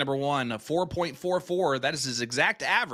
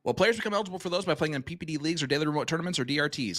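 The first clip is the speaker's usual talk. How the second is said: auctioneer voice; 2 semitones higher, 5 dB louder, much faster than usual. Pretend. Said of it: "ask for my auctioneer voice".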